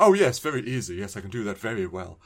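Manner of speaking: lightly hammed-up English accent; bad English accent. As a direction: imitate an actor badly faking an English accent. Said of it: "but in an English accent".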